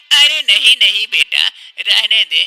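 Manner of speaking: urgent stop. Acted. Mother stops son uprooting plant.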